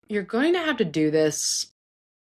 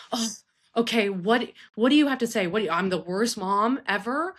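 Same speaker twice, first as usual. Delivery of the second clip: mock huffy parent, pitched up; defensive parent; 5 semitones higher than usual. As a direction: imitate a put-upon mom getting defensive. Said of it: "if you approach it like".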